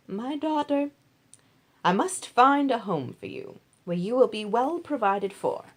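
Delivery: a mother planning her daughter's future; Naomi, caring mother-in-law. Acted. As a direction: Naomi earnestly advising Ruth. Naomi plans for Ruth.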